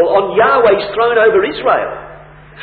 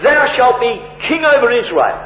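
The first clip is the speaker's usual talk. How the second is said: measured but emphatic declaration; 3 semitones higher than usual. Acted. Preacher showing how sure Jonathan was, emphatic. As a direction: state the promise firmly, landing it with certainty. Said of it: "But he's emphatic".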